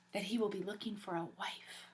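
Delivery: secretive whisper with a smile; sly whisper. Acted. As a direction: let them in on the gossip. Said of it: "said with a smile".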